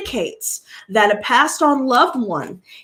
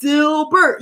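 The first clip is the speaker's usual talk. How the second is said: hyping up; 4 semitones higher, slower than usual. Retold or imitated. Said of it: "I'm like".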